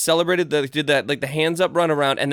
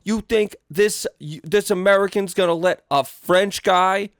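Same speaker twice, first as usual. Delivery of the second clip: much higher and slow, cocky challenge; high slow brash fighter; 5 semitones higher, slower than usual. Retold or imitated. Fighter mocking the French crowd in a high slow brag. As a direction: taunt the crowd like a swaggering brawler. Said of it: "he's like".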